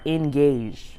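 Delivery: ENGAGED set apart with audible scare quotes; air quotes. Real, not acted. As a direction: say engaged as a doubtful so-called label. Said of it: "I'm putting air quotes around that".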